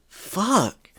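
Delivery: breathy whispered swear under the breath; whispered curse. Real, not acted. Ranting fan deflating into a whispered curse. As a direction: let it out as a whisper. Muttered curse after rant.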